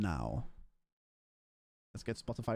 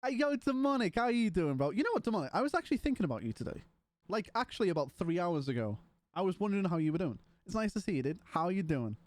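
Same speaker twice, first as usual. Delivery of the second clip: excited greeting; 5 semitones higher, faster than usual. Real, not acted. Streamer greets viewer Demonic.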